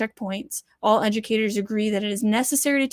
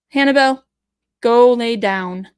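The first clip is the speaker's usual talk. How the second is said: louder, slow firm command to a dog; calling the dog; 7 dB louder, slower than usual. Real, not acted. Telling the dog Hannibal to lie down, loud slow command.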